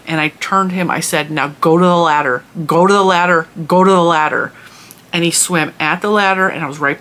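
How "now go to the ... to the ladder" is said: firm, punchy repeated order; retold no-nonsense dog command, pushed a little; stern command. Owner ordering dog out of the pool, stern. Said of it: "I say it in a stern voice".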